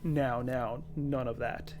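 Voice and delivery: deep, menacing tut-tut. Acted. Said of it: "a deeper version of his voice".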